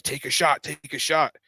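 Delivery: mildly insistent, repeated nudge; insistent urging. Retold or imitated. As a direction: urge it as if mid-argument. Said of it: "I'm sitting there arguing with him".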